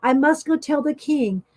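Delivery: a storyteller's alarmed yell; yelling for help. Acted. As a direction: shout it out like the sky is really falling. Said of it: "she yelled".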